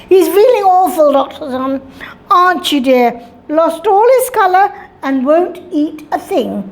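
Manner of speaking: lightly voiced fussy mother, quick at first; a hint of a smothering mum talking over her son; overbearing mother. Mother answering the doctor for her son, lightly fussy. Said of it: "sounding like an overbearing mother".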